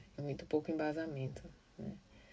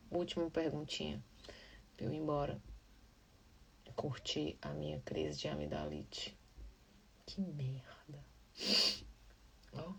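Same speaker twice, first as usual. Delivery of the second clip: whisper; 5 dB quieter than usual. Real, not acted. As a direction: whisper it, voice almost gone. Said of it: "Como é que grava sem voz?". (sussurro sem voz)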